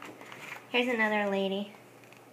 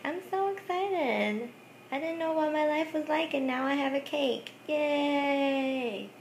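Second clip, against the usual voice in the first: mock giddy bride; 4 semitones higher than usual. Vlogger mocking the bride in a vintage wedding-cake ad, giddy. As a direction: play a dreamy bride gushing over a cake.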